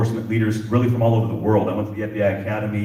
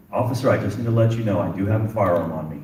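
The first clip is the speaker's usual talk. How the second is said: imitating an even, unhurried monotone; level, composed delivery of a quoted disclosure; calm monotone; 2 semitones lower than usual. Man informing the officer he has a firearm, calm monotone. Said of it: "in that calm, monotone, monotone voice".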